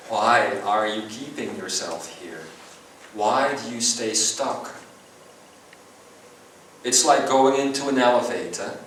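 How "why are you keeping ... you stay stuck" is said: probing gently. Shown as a demonstration. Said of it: "I would try to go to that space".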